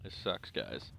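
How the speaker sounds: talking through hiccups; hiccuping between words. Real, not acted. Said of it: "hiccuping in your ear".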